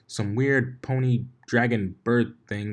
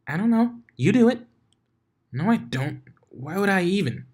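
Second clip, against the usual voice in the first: much higher, bouncy pony denial; bubbly Pinkie voice; 11 semitones higher, 4 dB louder than usual. Acted. Pinkie bickering with her friends, high and bouncy. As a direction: chirp it back playfully.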